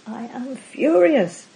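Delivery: understated demo of angry rumination; mild mock anger. Shown as a demonstration. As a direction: act out a fuming complaint, lightly. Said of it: "it might sound something like this".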